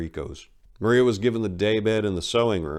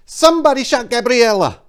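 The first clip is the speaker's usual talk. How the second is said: tearful shriek, far higher and louder; 12 dB louder than usual. Acted. Maria shrieking the news at Enrico in tears. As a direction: scream the news at him, streaming tears. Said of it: "she shrieked back the answer".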